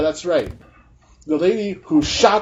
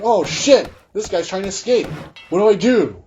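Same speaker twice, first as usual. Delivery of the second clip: higher-pitched imitation of panic; mock panic; 5 semitones higher than usual. Acting officer watching a suspect escape, mock panic. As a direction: blurt it like a rattled officer. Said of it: "in a moment of panic".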